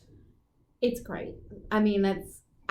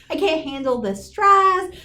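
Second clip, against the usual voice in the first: half-laughing, higher, slowed mock wail; laughing mock despair; 4 semitones higher, 4 dB louder than usual. Retelling her phone meltdown to listeners, laughing mock wail. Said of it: "maybe cried the first day".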